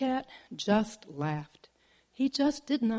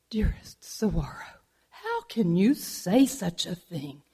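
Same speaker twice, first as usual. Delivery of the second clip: lovesick bobcat; 3 semitones lower than usual. Acted.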